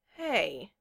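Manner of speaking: slow, dawning "hey"; said slowly. A narrator's reading. Valoron catches on about missed meals, speaking slowly. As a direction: let it out slowly as realisation lands. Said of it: "Valoron said slowly".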